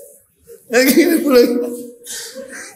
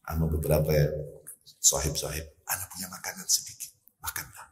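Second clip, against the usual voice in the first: low, hushed and softer; whispering; 10 semitones lower, 9 dB quieter than usual. Retold or imitated. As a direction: say it under your breath so others won't hear. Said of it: "Bisik-bisik sama Rasul".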